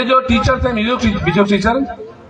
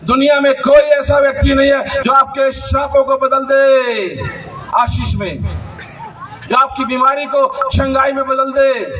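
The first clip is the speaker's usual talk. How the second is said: raised pitch held through each long phrase; forceful preaching; 6 semitones higher than usual. Real, not acted. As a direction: proclaim it to the whole congregation. (जोश भरा, ऊँचे सुर का उपदेश)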